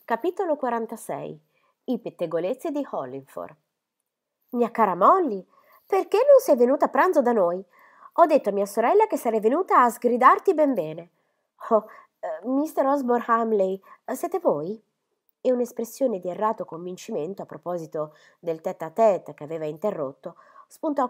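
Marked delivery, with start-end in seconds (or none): 4.5-14.8 put-on higher, louder old spinster's voice; an eager lady bustling in to scold fondly; chattering Miss Phoebe. Miss Phoebe arriving to scold Molly, high and loud.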